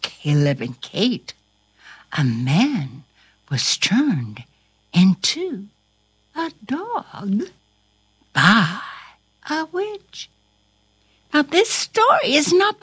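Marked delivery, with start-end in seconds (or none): 2.1-10.3 broken up with pauses; deliberate answer. Shown as a demonstration. Storyteller confirming the plot to Corona, deliberately. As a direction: spell it out piece by piece, starting low.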